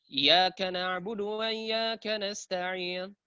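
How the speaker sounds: "Iyyaka" run in as "yaka", first i lost; chanted reading swallowing the opening i of "iyyaka"; hamzah dropped. Shown as a demonstration. Teacher mimics readers who err, hamzah dropped. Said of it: "banyak orang yang baca seperti ini".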